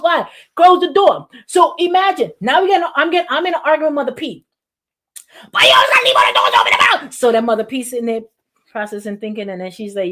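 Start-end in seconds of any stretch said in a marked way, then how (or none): 5.5-7.1 hissed complaint. Retold or imitated. Acted argument with Mother P.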